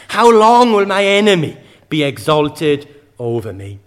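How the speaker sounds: crying out. Retold or imitated. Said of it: "The cry of David".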